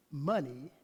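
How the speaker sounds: hushed closing whisper, breath only. Real, not acted. Preacher taking his seat, ending on a hushed whisper. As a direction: let the last words fall to a whisper. Preacher closes sermon softly.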